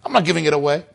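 acted-out possessive scream; retold inner scream. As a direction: burst out far up in pitch. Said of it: "you know what I was screaming?".

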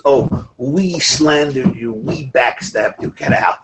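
slow, drawn-out mocking apology; mock confession. Mocking someone who confesses as we. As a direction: drag out the plural confession mockingly.

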